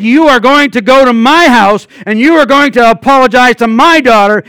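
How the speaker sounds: retelling a furious threat in the street; angry threat. Retold or imitated. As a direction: demand the apology like you mean the beating. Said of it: "And I was mad, and I meant it".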